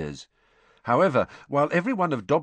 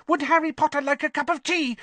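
high, squeaky house elf; loud squeak. A narrator's reading. Dobby offering Harry tea over Winky's sobs, squeaky and high. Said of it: "he squeaked loudly".

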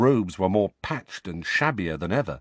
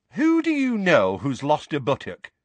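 put-on higher, curious young witch; lightly voiced nosy witch; interested question; 6 semitones higher, 4 dB louder than usual. Witch asking Moody about buttocks, curious. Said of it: "asked Mad-Eye interestedly".

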